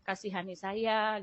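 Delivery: soft, faint plea to God; barely above a murmur, begging for help; weak pleading prayer. Retold or imitated. Sick mother softly begging Jesus for help, faint and weak. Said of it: "Saya cuma bilang".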